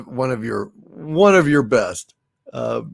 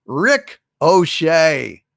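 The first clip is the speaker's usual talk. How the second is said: slow punchline; much slower than usual. Shown as a demonstration. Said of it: "punchline delivered".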